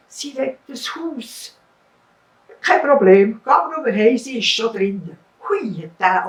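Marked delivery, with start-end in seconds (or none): 0.1-1.6 slow, higher, whimpering admission; ashamed, almost crying; mock tearful fisherman; sheepish. Ashamed fisherman tells fish. 2.6-5.2 loud breezy reassurance; magic fish granting. Acted.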